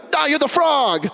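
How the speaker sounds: high, slow mock reply; deadpan no. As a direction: let them down flatly. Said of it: "And I'm like".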